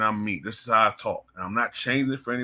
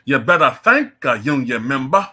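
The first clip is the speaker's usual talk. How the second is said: imitating a put-on Southern black accent, louder; mocking a politician's fake accent; 3 semitones higher, 7 dB louder than usual. Commentator mocks her put-on accent. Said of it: "obviously put upon accent".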